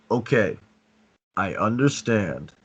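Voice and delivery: slow, steady, self-controlled reply; calm strong demo. Shown as a demonstration. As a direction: answer calmly, in full control. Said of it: "calm, strong voice, and always demonstrate self-control".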